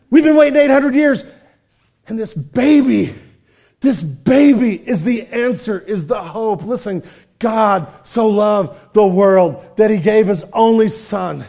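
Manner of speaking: loud, slow, impassioned proclamation; full-force preaching; fervent preaching. Acted. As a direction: drive it home from the pulpit. Preaching climax.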